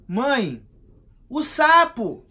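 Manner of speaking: exasperated, make her see it; insistent exclaim. Retold or imitated. Son insists to his mother about the toad, loud and high.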